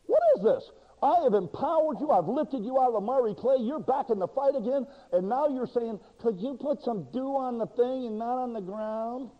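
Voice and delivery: hammed-up divine scolding of Gideon; God rebuking. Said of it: "He could have said".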